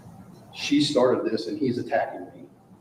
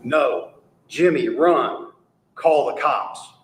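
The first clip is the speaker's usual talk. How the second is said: urgent call; 4 semitones higher, 4 dB louder, much slower than usual. Retold or imitated. Victim shouting warning quoted.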